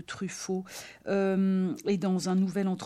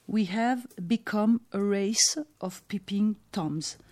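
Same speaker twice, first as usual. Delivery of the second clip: slow, deliberate English quote read like a line from the film; slow theatrical reading of a film line; quoting Stella; 3 semitones higher, 5 dB louder, slower than usual. Retold or imitated. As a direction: savour each word, a little louder, like the film's nurse. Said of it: "affirme dès le début de Fenêtre sur cour la prophétique Stella".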